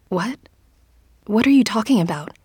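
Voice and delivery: quick, rising disbelief; bewildered. Acted. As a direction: fire back, baffled. Shocked reply to insult.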